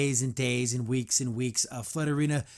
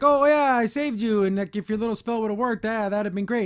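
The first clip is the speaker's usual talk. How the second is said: higher, mildly taunting imitation; mock boasting; 4 semitones higher than usual. She-Ra talking crap to her friend, mock boasting. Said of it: "talking crap to her friend".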